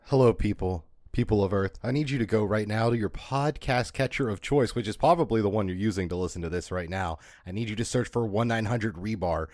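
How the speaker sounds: lightly voiced booming radio ad host; a hint of a grand ad announcer; booming arrogant alien overlord. Fake podcast ad, radio style.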